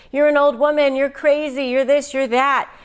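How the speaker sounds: lightly mocking, needling insults; goading her with jabs; taunting an elderly woman. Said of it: "she said things over and over".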